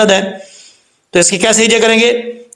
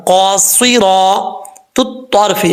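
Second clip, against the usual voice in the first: slow recitation; slower than usual. Shown as a demonstration. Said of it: "teacher recites word slowly".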